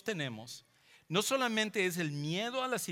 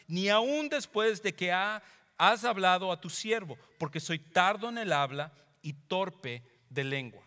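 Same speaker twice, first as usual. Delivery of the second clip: higher, louder pleading Moses; humble plea; 4 semitones higher, 4 dB louder than usual. Retold or imitated. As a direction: beg the Lord, humbled and hesitant. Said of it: "escucha cómo lo dice Moisés". (Moisés rogando al Señor, más alto y fuerte)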